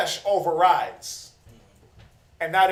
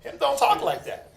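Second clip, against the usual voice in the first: a half-laughing, stammering double-take, one word leaping high; shocked onlooker who can't believe how the preacher talks; mock disbelief; 4 semitones higher than usual. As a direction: play a listener caught off guard, lightly.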